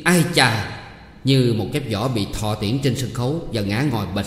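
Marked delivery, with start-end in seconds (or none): 0.0-0.7 a sharp, raised exclamation of shock; shocked cry. Acted. Official hears he is named as the culprit's father, shocked cry. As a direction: cry out as if stung by the news. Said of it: "kêu lên một tiếng".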